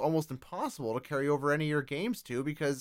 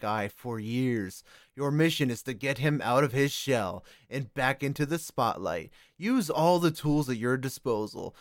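video game ad. Acted. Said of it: "let's have a word from our sponsors".

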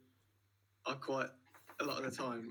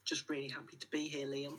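breathy whisper, voice off; 2 semitones higher than usual. Real, not acted. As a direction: whisper it shyly to the host. Guest says it under his breath.

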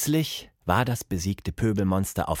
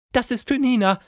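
high, proclaiming call; solemn call; 14 semitones higher, faster than usual. A narrator's reading. Plappi flinging the phone down for Nina, calling solemnly. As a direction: declare it high, like a small ceremony. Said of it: "rief sie feierlich".

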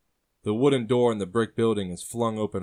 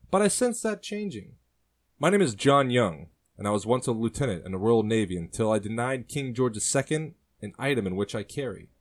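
higher, louder sailor's voice, proud; 3 semitones higher, 4 dB louder than usual. Acted. Sailor tells his story to the brother and sister, proudly. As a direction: declare yourself like a free-souled officer. Sailor introduces himself in held voice.

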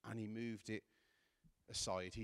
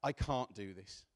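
crying out in desperation; 5 dB louder than usual. Retold or imitated. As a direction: act out a raised cry to a father. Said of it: "Jesus is shouting out".

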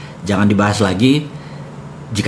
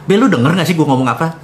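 impatient; 7 semitones higher, faster than usual. Retold or imitated. Pressing the ignoring Babe.

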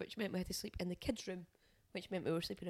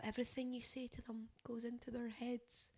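hushed mock-solemn advice; mock whisper; 8 dB quieter than usual. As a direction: whisper it like a preachy post. Mocking parenting advice posts.

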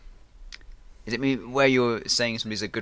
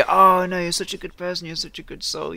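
high-pitched, gushing mock sympathy; gushing praise; 7 semitones higher, 4 dB louder than usual. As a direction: open loud, then soften while staying high. Acting out local insincere sympathy.

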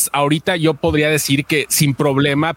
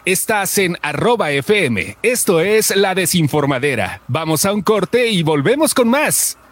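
slow radio announcer; 3 semitones higher than usual. Shown as a demonstration. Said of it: "le diste el timing lento".

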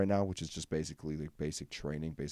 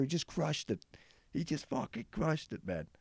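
awed admiration; 10 semitones higher than usual. Real, not acted. Admiring the drummer.

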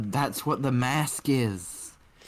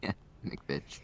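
whispering; 6 semitones lower, 12 dB quieter than usual. Real, not acted. Echoing the name in a whisper.

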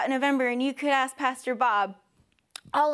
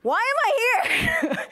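high, slow, bewildered question; mock bewildered; 11 semitones higher, 4 dB louder, slower than usual. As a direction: ask it like you can't believe you're stuck there. Retelling being exiled from the kids.

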